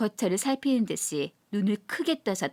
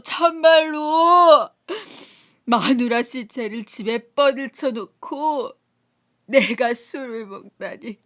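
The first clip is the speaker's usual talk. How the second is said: slow wailing, rising to loud self-reproach; drunken grief; 2 semitones higher, 6 dB louder, slower than usual. Acted. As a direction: cry out his guilt. Drunk grieving Kim weeps. (아내 잃은 술꾼의 통곡)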